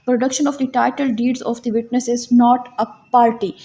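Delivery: slow statute reading. Shown as a demonstration. Reads the article title in recap.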